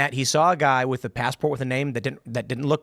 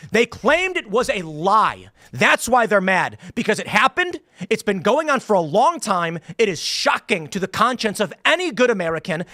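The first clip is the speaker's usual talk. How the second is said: heated rant; 4 semitones higher than usual. Real, not acted. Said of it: "I gotta do an extended rant".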